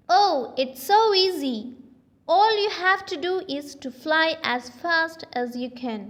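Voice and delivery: eager boast. Acted. Aussie taunts Morpho in story.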